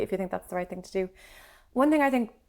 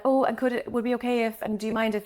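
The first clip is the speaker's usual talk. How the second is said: over-apologetic; 3 semitones higher than usual. Retold or imitated. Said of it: "it's so Irish a little bit to be like".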